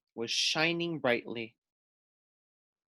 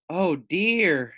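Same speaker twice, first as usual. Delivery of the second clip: wailing; 3 semitones higher, 3 dB louder than usual. Acted. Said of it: "wailed Loony Little".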